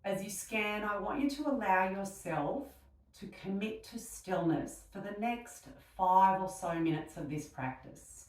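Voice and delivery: unhurried meditation voice with long pauses; guided meditation. Real, not acted. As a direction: gently guide them into stillness, leaving space between phrases.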